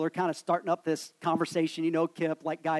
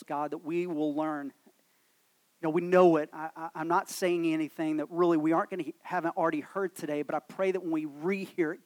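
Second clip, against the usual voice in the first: prayer; 3 dB quieter than usual. Real, not acted. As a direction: talk to God humbly, a little softer than preaching. Leads congregation in prayer.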